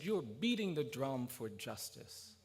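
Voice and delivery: slow, measured pronouncement; imitated elder's slow declaration; solemn verdict. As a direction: draw each word out with weight. Retold old man's solemn verdict.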